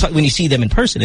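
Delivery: ordinary talk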